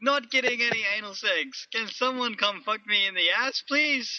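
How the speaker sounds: narrator voice. Pretend. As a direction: announce it like a grand storyteller. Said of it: "narrator voice".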